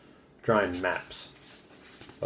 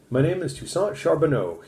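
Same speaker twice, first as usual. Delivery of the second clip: put-on high, loud French trapper's accent; heavy French accent; 8 semitones higher, 5 dB louder than usual. Frenchman barging in on the captain, in a heavy French accent. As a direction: introduce yourself in a thick French accent. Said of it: "he said with a heavy accent".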